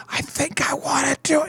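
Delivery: lightly acted high, hesitant voice; timid would-be starter.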